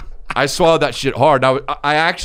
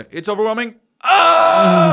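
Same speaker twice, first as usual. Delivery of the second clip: put-on high child's wail building to a scream; overwhelmed child; 12 semitones higher, 6 dB louder, slower than usual. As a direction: imitate a small boy's loud, high meltdown cry. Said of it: "he's just like".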